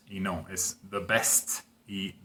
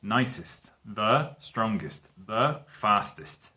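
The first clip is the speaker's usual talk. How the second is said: slow model examples; much slower than usual. Shown as a demonstration. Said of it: "we say the nicest".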